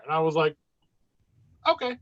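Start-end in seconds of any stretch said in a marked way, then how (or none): 1.7-2.0 small, high-pitched giving in; retold meek compliance. Large patient told to lie down by small doctor, meekly obedient. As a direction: imitate a big man suddenly cowed.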